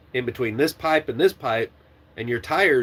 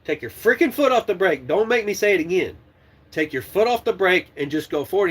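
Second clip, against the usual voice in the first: raised, heated voice barking orders at a trainee; angry yelling; 5 semitones higher than usual. Retold or imitated. Trainer yelling at trainee to release the brake, angry. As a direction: yell at him to get off the brake. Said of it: "I said".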